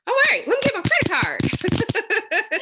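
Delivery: rising from chatty to squealing high and loud; building excitement. Retold or imitated. Prospect hearing a voice clip, squealing with building excitement. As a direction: talk yourself into buying, getting giddier.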